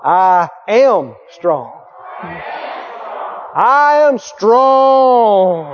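very slow, drawn-out affirmation; slow building confession. Shown as a demonstration. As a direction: stretch each word as the faith builds. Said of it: "Repeat after me".

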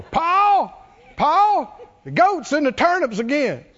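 high, shrill-free cartoon mother calling Paul; cartoon mother's high yell; Ma from Hillbilly Bears. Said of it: "And Ma would go".

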